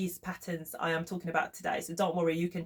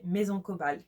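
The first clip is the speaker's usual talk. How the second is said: "Maison Cobalt" said the French way, with a French accent; the brand name "Maison Cobalt" in a native French accent. Real, not acted. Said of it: "sorry about the French accent coming back".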